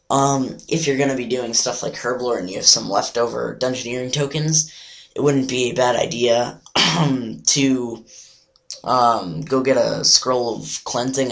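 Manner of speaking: hoarse, nearly lost voice. Real, not acted. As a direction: talk through a lost voice. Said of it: "I just kinda, like, lost my voice".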